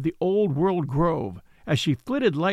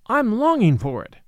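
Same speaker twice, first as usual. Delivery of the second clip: eager; 6 semitones higher, 4 dB louder than usual. Acted. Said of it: "he added".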